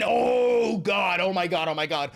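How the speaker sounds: mock shock. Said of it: "mock outrage".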